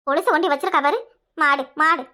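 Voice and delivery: low angry shout of மாடு; mother shouting insults at her daughter; scolding shout. Acted.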